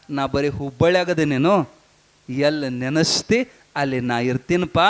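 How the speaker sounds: put-on low, gentle voice of the old master; consoling guru. Guru consoles crying disciple.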